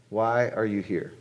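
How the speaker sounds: slowed down, each word landing. Shown as a demonstration. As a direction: let the question sink in, slow. Question repeated for weight.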